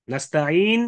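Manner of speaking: নাস্তাইন ending on a silent-vowelled n; ishmam on final nun. Shown as a demonstration. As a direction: say নাস্তাইন, closing on n with rounded lips. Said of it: "বলে পেশের দিকে ইশারা করা".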